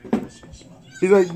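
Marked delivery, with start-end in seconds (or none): 0.1-0.3 real helpless laughter; laughing. Real, not acted. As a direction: lose it laughing mid-phrase. Cracking up at a movie.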